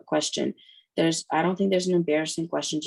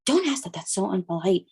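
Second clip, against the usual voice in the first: scolding mom; 3 semitones higher than usual. Retold or imitated. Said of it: "And the mom's like".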